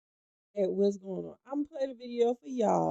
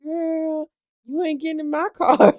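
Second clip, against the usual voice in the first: loud, high mock scolding mama; imitating the mama; 8 semitones higher, 11 dB louder than usual. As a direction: boom it out like the mama refusing her a ride. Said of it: "I'm talking about".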